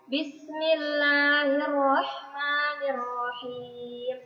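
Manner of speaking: slow, drawn-out chanted recitation; teacher slowly chants the ta'awudz for children to follow; Quranic recitation. Acted. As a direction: stretch each syllable like tilawah. Teacher recites basmalah with class.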